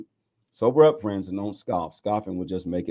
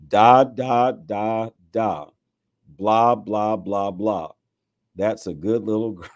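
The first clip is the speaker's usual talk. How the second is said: put-on loud, cooing sing-song baby talk, a bit louder; mock baby talk; 4 dB louder, slower than usual. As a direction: talk down to a toddler like a parent. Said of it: "God will speak in baby talk".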